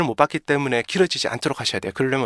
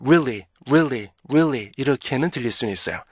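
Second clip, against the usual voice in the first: sped-up weakened REALLY; slower than usual. Shown as a demonstration. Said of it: "이 발음이 빨라지면요".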